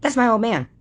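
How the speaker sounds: high, mocking girlish whine. Retelling the girl's claim to chat, mock high whine. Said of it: "she goes".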